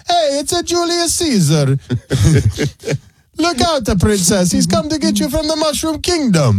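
Caesar talking like Mario. Pretend. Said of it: "sounded like Mario".

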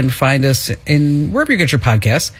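radio show intro voice; announcer. Acted.

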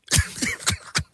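soft breathy laugh; quiet laugh. Real, not acted. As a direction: chuckle under your breath. Prank revealed, laughing.

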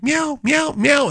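high squeaky toy meow; toy cat meowing. Retold or imitated. Dad imitating daughter's toy cat, high meows. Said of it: "it'd be like".

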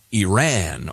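first "Iran" as ee-RAN, rhyming with "man"; ee-RAN pronunciation. Shown as a demonstration. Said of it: "some people who say Iran or".

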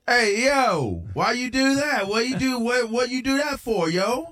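lightly voiced buddy slang, questioning; a hint of a streetwise friend asking why; mild mock "hey yo" voice; mock Patty impression. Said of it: "I mocked him".

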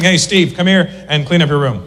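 direct white parent. Retold or imitated. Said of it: "White parents are very direct".

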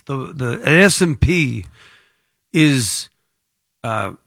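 lightly voiced doom-laden promo warning; mock sales pitch. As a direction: pretend to sell a dire market warning. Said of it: "I have the voice for it".

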